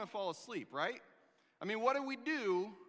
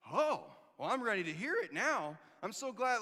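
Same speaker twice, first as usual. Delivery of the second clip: dry mock relief; sarcastic; 3 semitones higher, 4 dB louder than usual. Preacher imagining his reply to the angel, louder and sarcastic. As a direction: roll your eyes as you say it. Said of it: "I have a very sarcastic personality".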